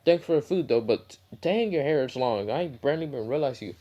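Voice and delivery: mildly surprised, lifted pitch; shocked. Acted. Choji hearing it's Naruto, mildly shocked. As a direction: act lightly taken aback by an old friend. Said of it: "Choji was shocked".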